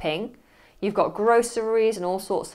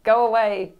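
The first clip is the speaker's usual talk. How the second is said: annoyed busy worker. Acted. Busy student shooing away the teacher, mildly irritated. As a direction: brush them off, half joking. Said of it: "I'll say".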